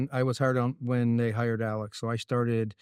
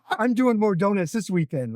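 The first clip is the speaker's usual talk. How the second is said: high, excited Italian-accent imitation; retold glee in an Italian accent; 7 semitones higher, 4 dB louder than usual. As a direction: crow it like an Italian driver. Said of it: "in his Italian accent".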